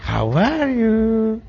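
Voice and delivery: slow, high syrupy greeting with a laugh; mocking sweet greeting. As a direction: imitate the sugary hello, laughing. Imita el saludo dulce riendo. (imitación empalagosa entre risas)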